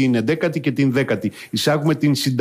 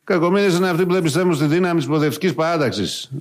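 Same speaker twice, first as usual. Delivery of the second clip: Tsipras impression. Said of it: "Ναι, αλλά Αλέξη".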